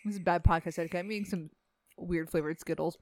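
words around a mouthful of candy; chewing while talking. Real, not acted. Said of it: "sorry, I'm also eating".

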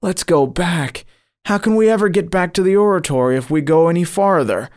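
high, hurried plea in horror; pleading. A narrator's reading. Frightened dreamer begs his guide to go back, pleading.

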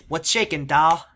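loud mock ladies' man; imitated slick flirt. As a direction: punch the last word like a hammy flirt. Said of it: "and he says".

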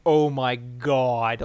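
loud, drawn-out retold exclamation; stunned disbelief. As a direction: stretch it out loudly, as if reeling. Retold reeling from across the room.

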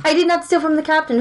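high, firm protest; indignant denial. Acted. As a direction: stress did, deny it hotly. Player denies stealing, pirate accuses.

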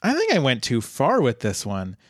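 high, swooping mock-distressed dean; hammed-up dithering administrator; the dean, flustered. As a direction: swoop up high in comic dismay. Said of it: "and he is like".

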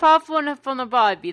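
mock Aussie twang; light imitation of an Aussie bloke; Australian accent. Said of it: "That's how people in Australia talk".

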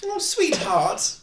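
high fretting mummy voice. Acted. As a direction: fluster like a high-voiced mum. Mum calls out about son.

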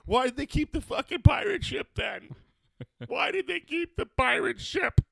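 squeaky high voice; high mock outrage.

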